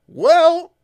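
high laughing "well"; squeaky laugh-through hesitation; laughing hesitant well. Retold or imitated. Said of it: "the guys in R and D are like".

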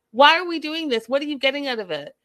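fed-up cry at the screen; exasperated outburst. Real, not acted. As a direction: throw the question up in despair.

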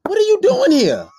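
loud, high shout of disbelief; upset shout. Retold or imitated. Shouting at the girlfriend who showed up uninvited, angry. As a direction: bark it out at the uninvited guest. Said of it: "I was so upset".

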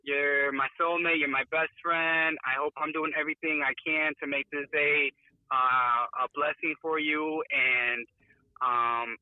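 tender, slow birthday message to his wife; love bombing. Real, not acted. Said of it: "so since you guys called me today".

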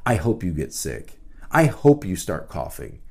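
low, sulky muttered curse; sulky daughter. Retold or imitated. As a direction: grumble a petty wish at dad. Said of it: "she says".

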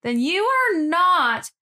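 mock Southern preacher working up the crowd; imitating a creepy Southern minister's drawl. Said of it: "he talks with the Southern drawl when he says".

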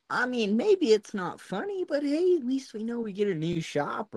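laughing along at the boss's expense. Real, not acted.

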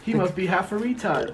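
put-on Boston accent. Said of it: "Does that sound like a Boston accent".

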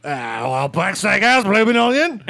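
rising to a high, loud mock Australian; hammed-up Australian advert voice; bad Australian accent. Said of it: "Now make it Australian".

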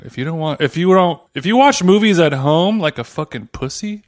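sultry voice. Retold or imitated. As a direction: purr it like a sexy ad read. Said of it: "sexy, sultry voice".

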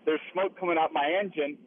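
phone call from inside a moving truck; calling in from the cab of a tow truck. Real, not acted. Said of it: "So I'm in a truck right now".

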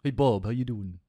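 badly faked greeting in a famous singer's voice; a half-hearted stab at the singer's voice; terrible impression. Host imagines the singer greeting another singer in a film cameo, terrible impression. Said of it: "That was a terrible one".

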